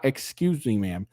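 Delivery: sweetly polite stranger; a lilting, overly courteous "Excuse me, ma'am". Retold or imitated. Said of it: "A very polite way of addressing".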